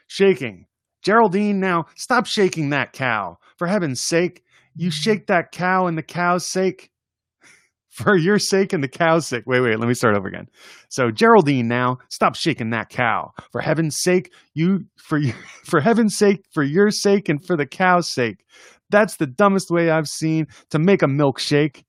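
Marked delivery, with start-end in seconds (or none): 1.0-9.4 high mock scolding voice. Scolding Geraldine in poem. 11.1-21.8 high mock scolding, giggling through it. Retake of scolding poem.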